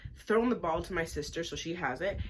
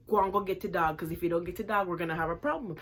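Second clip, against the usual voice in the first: angry warning; 4 dB louder, faster than usual. Retold or imitated. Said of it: "I'm telling this little pitney".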